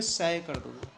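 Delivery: सै said as a short "sae" instead of "saai"; the mistaken सै, short "sae"; wrong pronunciation. Shown as a demonstration. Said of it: "तो ऐसे नहीं पढ़ना".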